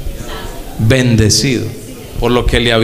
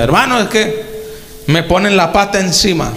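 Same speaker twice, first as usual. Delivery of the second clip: quoted complaint; 4 semitones higher than usual. Retold or imitated. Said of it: "escuché al hermano Álvaro Torres decir".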